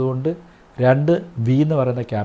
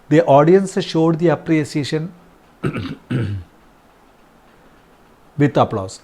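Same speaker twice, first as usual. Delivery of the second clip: slow dictation; 3 semitones higher, much slower than usual. Shown as a demonstration. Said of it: "അവിടെ നമ്മൾ എന്ത്".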